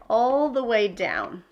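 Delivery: ordinary talk, nothing marked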